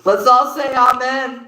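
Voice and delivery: loud, high and amused; laughing. Real, not acted. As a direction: call it out on the edge of laughter. Breaking into laughter after joke.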